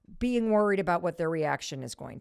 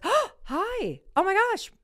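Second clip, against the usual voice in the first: very high, loud squeal of recognition; squealed hello, building louder on the name; delighted greeting; 12 semitones higher, 6 dB louder, much slower than usual. Retold or imitated. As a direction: mimic someone thrilled to bump into you.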